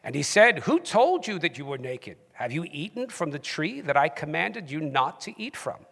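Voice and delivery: scripture read in a British accent. Shown as a demonstration. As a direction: put on your best British accent to read. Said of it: "in your best British accent".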